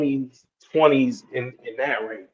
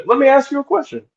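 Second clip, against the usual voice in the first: loud sharp voice; 8 semitones higher than usual. Real, not acted. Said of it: "stop yelling at me".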